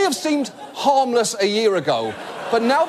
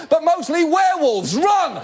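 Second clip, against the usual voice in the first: much higher, frantic mock alarm; angry villager yelling; 8 semitones higher than usual. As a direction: cry out a warning to the whole town.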